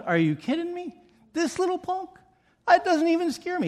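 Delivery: high, scoffing heavyweight boxer taunting a little punk; cocky boxer. Acted.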